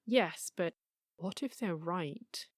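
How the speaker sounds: soft, slowing voice of nagging doubt; whispering inner voice. Acted. Little voice haunting the pre-dawn hours, lightly hushed whisper. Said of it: "little voice that haunts the pre-dawn hours and whispers".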